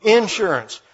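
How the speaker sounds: Eastern Kentucky first-syllable stress, HO-tel, MO-tel, IN-surance; Eastern Kentucky accent. Shown as a demonstration. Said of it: "because in Eastern Kentucky it's".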